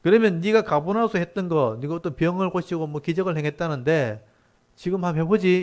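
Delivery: acted taunting demand; sarcastic dare. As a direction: goad him like a sceptical townsman. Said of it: "비꼬듯이 말하는 거죠".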